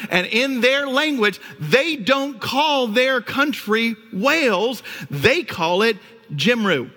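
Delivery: high, slow, mock-disappointed lecture; mock stern dad. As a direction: play the let-down father, hammed up lightly. Dad scolding son.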